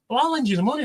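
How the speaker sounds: put-on girlfriend voice.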